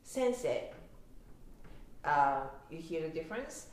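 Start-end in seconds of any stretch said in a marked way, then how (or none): 0.0-0.7 sensei with Osaka intonation, higher pitched; Osaka-dialect pitch on sensei; Osaka accent. Shown as a demonstration. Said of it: "when I say it with Osaka accent".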